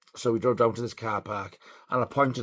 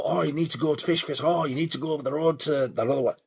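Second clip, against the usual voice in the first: lightly voiced advice-givers, pitched higher; a hint of higher-voiced busybody locals; imitating other people; 4 semitones higher, faster than usual. People recommending other chippies, lightly imitated. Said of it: "people always go".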